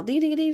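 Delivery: high, light "ding" bell imitation; imitated bell. King rings the bell around the couple, imitated ringing. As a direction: mimic a little handbell ringing up high. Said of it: "he rings the bell".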